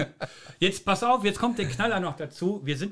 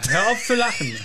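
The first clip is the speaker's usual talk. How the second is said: stifled giggles; 5 semitones higher than usual. Real, not acted. Laughing while scolding friend.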